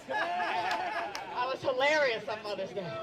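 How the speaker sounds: slow, laughing through it. Real, not acted. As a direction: chuckle while saying it. Laughs through own line.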